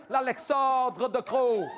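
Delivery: slow, drawn-out scornful name; mocking the minister again. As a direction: drag the name out.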